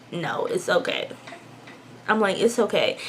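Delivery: very soft, low reply; retold reassurance. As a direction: play it down softly. Retold answer to worried friend.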